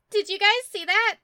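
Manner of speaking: high, loud amazed outburst; starstruck excitement. Acted. She turns round to the party after the wolf talked, loudly amazed. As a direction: burst out to your friends in giddy disbelief. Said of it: "and she says".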